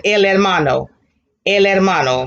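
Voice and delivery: hermano begun on the vowel, no H sound; silent H. Shown as a demonstration. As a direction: say hermano as "ermano". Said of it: "because H is always what? Silent".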